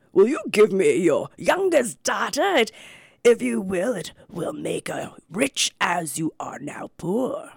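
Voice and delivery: slow, lightly voiced great white bear; a hint of a solemn bear. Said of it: "said the bear".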